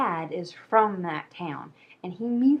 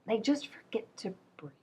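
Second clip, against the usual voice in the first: spooky hush; 2 semitones higher, 7 dB quieter than usual. Acted. Spooky closing line of video.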